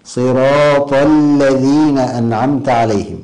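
slow recitation pressing the l of الذين; stressed doubled lām. Shown as a demonstration. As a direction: press the shadda in الذين, then recite on slowly. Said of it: "يحدث نبرا وضغطا على الحرف".

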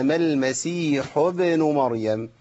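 slow, smooth "ابن" with light qalqala; correct recitation. Shown as a demonstration. Teacher giving the finished correct model: smooth recitation. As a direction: recite it cleanly without exaggeration. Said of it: "وكده يبقى أنا خلصتها".

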